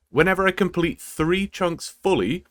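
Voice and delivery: "fully" set apart with clear emphasis at the end; stress on fully. Real, not acted. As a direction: lean on the word "fully" as the key condition. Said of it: "I emphasize the word fully".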